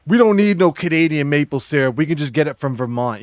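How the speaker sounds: hammed-up Boston accent. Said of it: "this really awful Boston accent".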